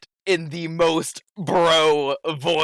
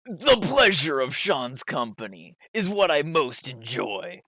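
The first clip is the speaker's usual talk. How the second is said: gym bro voice. Acted. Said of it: "He reads it in the most bro voice".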